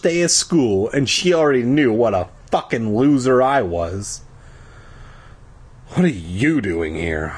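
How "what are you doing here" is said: lower, flat-voiced gloom; boy asking his new classmate, mildly glum. A narrator's reading. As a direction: ask it like you've given up. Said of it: "I asked glumly".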